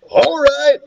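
high, pleased half-whisper; excited whisper. Acted. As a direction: celebrate under your breath, pitched high. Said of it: "Ryan whispered, pumping his fist".

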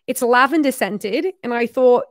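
amateur put-on Australian accent. Shown as a demonstration. Reading the note about the koala gift, put-on Australian accent. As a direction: read it out in an imitation Australian voice. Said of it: "can't even do this accent anymore".

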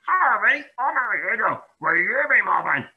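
high, timid little hedgehog; a shy creature asking hopefully; small hedgehog voice. Acted. Harry asking the fox to be friends, high and timid.

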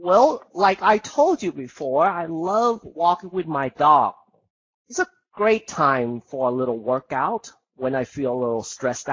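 unhurried teacher demo, words spaced out; calm precise demo answer, slow; slow, clear model answer. Shown as a demonstration. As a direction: speak slowly and precisely like an exam model. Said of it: "เห็นไหม? ไม่ต้องเร็ว".

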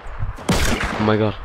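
slow, breathy whispered oh my god. Real, not acted. Player hiding from an enemy, slow scared whisper.

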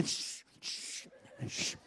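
unvoiced shushing; whispered shush. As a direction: hush yourself near a sleeper. Hushing self beside sleeper.

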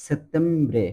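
সেপ্টেম্বরে as set-TEM-bre; Italian settembre. Shown as a demonstration. Teacher modelling Italian September, careful pronunciation. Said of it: "দেখেন September কি বলতেছে".

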